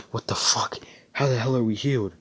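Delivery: hushed, breathless disbelief, rising; stunned whisper. Acted. Healed captives gasp in disbelief, stunned whisper. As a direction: whisper it in shock, then climb.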